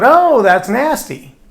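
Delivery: an interviewee recoiling from chocolate-covered sprouts; mock disgusted. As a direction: pull a face at the thought of it. Same answer reused for an edit.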